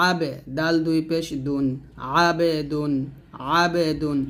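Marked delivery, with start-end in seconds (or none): 0.1-0.3 "আবে" with an echoed b; qalqalah bounce. Shown as a demonstration. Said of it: "কলকলা হবে". 2.2-4.2 "আবে দুন" with a bounced b; qalqalah bounce. Shown as a demonstration. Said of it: "কলকলা হবে".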